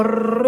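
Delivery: rrr trilled with the tongue tip; rolled R. Shown as a demonstration. Mother demonstrating the rolled R her daughter learned. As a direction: roll the rrr sound. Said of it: "la R".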